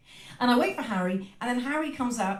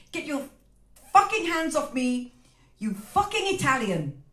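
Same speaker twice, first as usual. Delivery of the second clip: louder, higher swearing outburst; angry outburst; 3 semitones higher, 3 dB louder than usual. Retold or imitated. Customer snapping at the shopkeeper's hand on her shoulder, angry outburst. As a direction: spit it at him in fury. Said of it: "I said".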